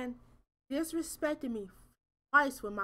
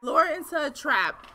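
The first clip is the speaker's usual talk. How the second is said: laughing read; 2 semitones higher, 5 dB louder than usual. Real, not acted. Reading ending title, laughing.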